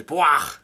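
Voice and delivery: short, loud "bwah" with falling pitch; mock outburst. Sanji reacting after Chef Zep's scolding, mock outburst. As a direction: imitate a comic-book blurt, punched loud. Imitates character's outburst in retelling.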